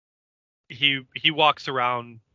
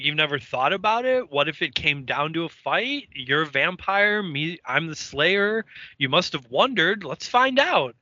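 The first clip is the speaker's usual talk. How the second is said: higher-pitched goading, building to the challenge; retold taunt; 4 semitones higher than usual. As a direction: imitate someone daring an opponent to fight. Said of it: "she starts to taunt him".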